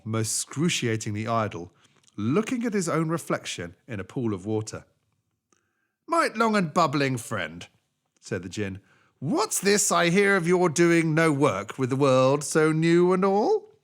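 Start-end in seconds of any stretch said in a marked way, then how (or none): 6.1-13.7 slow, loud, higher djinn voice; drawn-out reproach from a magic being; djinn scolding. Acted.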